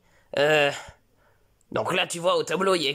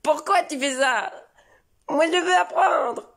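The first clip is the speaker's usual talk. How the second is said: put-on whiny child; 9 semitones higher than usual. Son insisting to his father he wants to learn, higher whiny kid. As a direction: plead like a stubborn little boy.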